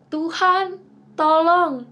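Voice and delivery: retelling Peter's cry to Jesus, mildly shouted; retold cry for help. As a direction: echo Peter's shout, a little toned down.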